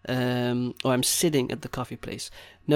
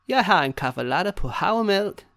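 higher-pitched barista announcement; calling over; 5 semitones higher than usual. Acted. Café staff calling over a customer's order, calling out. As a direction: call out a ready order lightly. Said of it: "sort of call over like".

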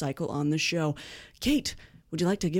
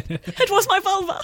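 put-on squeaky old lady; 12 semitones higher, 4 dB louder than usual. Old voice punchline.

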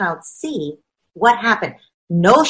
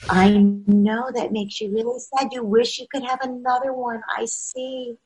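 soothing parent; 2 semitones higher, 6 dB quieter than usual. Acted. Parent gently soothing a sobbing child. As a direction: hush a crying child gently. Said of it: "That parent says".

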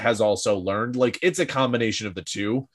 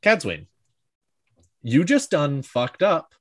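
calm menace. Retold or imitated. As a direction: imitate a calmly delivered threat. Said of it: "it's so calm".

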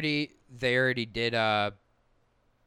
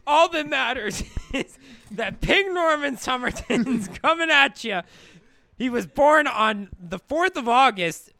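slow, higher hype-man promo voice; wrestling promo; 5 semitones higher, 3 dB louder, slower than usual. Pretend. Hyping the fighter's intro.

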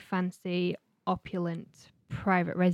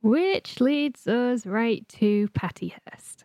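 dramatic whisper; 2 semitones higher, slower than usual. Pretend.

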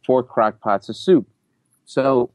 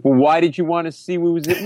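imitated nosy interrogation, raised pitch; mock-suspicious challenge; accusatory; 4 semitones higher than usual. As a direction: press the accusation. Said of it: "very accusatory".

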